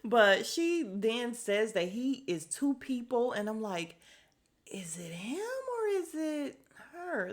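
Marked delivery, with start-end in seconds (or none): 4.7-7.3 whisper. Real, not acted. Incredulous question to viewers.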